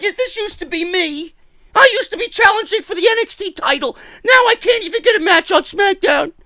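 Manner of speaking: high-pitched mock complaining voice; Kairi Sane. Sidelined wrestler lamenting her lost title shots, mock high voice. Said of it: "She's like".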